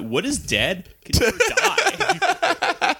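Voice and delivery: high, slow, solemn line; mock-dramatic Ironborn oath. Friend quotes Game of Thrones to the group, mock-solemn intoning. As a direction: intone it like a grim sea priest, half joking.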